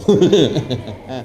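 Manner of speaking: low rolling chuckle; low self-amused laugh. Real, not acted. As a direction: chuckle at your own joke. Laughs after his own joke.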